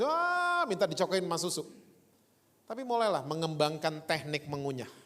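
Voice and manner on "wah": mock baby cry. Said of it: "cuman mau nangis".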